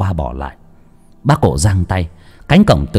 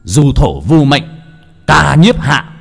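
shouted incantation; 4 semitones higher, slower than usual. Acted. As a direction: bellow the spell slowly. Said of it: "hét lên".

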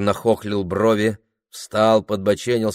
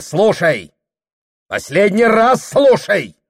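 higher, louder, slow warning; menacing ultimatum; 9 semitones higher, 8 dB louder than usual. A narrator's reading. Husband giving his wife a final warning, loud and menacing. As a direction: lay down the last warning.

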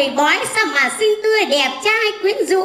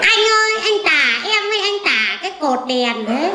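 laughing protest; faster than usual. Acted.

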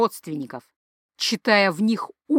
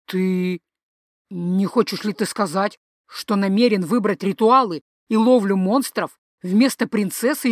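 alarmed father. Acted. Father shocked by son's refusal.

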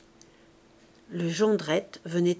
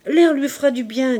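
louder and higher, cutting the wife off; husband overruling his wife, loud and curt; brusque retort; 5 semitones higher, 8 dB louder than usual. Acted. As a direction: dismiss her worry with force. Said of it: "dit Jondrette".

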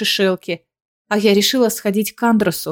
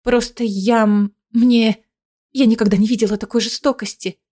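panting shaky eyewitness. Acted. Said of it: "сбивчиво объясняет Диана".

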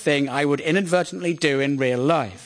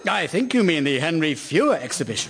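mock RP correction; fantastically RP. Correcting someone upper middle class, fantastically RP. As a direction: correct them in exaggerated RP. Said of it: "I become fantastically R P".

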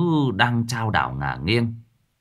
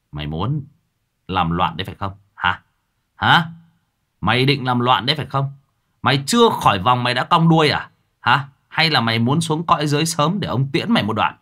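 stern scolding; 3 semitones higher, 3 dB louder than usual. Acted. Mặc scolding the demon trapped in the tablet, angry. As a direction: interrogate the demon like a furious boss.

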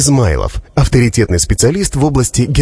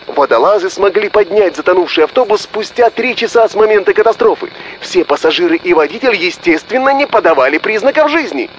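higher, excited, rattling little doctor; 10 semitones higher than usual. Acted. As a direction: fire it off like a flustered doctor. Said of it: "затараторил маленький носатый человечек".

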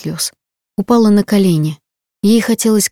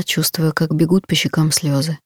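ordinary delivery

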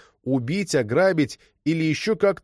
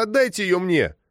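high, pleading cry; childish demand; 8 semitones higher than usual. A narrator's reading. Girl demanding the netsuke back, high pleading cry.

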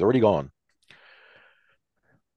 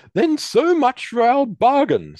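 high, loud, slow threat; menacing threat; 8 dB louder, slower than usual. Acted. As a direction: threaten before pulling the gun. Warden raises his gun.

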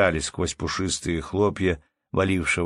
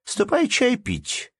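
calling from window; 7 semitones higher than usual. A narrator's reading. Anna Andreevna calls from the window for tea, high calling voice. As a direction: holler him in for tea. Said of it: "прокричала она".

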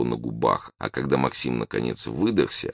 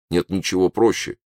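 lightly exclaimed, higher pitch; breezy exclamation, pitched up; exclaiming; 6 semitones higher, 3 dB louder than usual. A narrator's reading. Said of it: "воскликнул Высоколобый".

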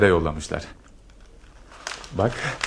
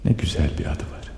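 dreamy whisper; 3 semitones lower, 4 dB quieter than usual. Acted. Dreamily repeating her name.

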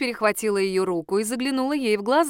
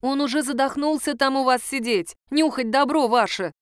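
indignant; 3 semitones higher than usual. Acted. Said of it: "возмутилась я".

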